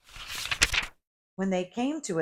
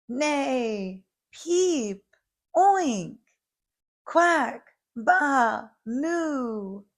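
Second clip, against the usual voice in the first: animal cheers; 6 semitones higher, much slower than usual. A narrator's reading. All the animals cheering for Little Blue. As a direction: cheer in each animal's voice in turn. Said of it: "Everybody cheered".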